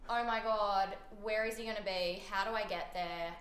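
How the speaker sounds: loud, breathless rush of questions; excited panic. Retold or imitated. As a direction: scramble with giddy urgency. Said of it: "excited turned into".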